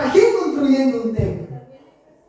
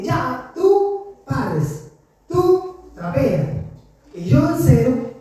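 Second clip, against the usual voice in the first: mother giving chores; much slower than usual. Retold or imitated. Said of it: "nos decía".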